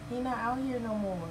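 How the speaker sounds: high, sing-song pet voice. Real, not acted. Owner soothing her dog that his friend went inside, high baby talk.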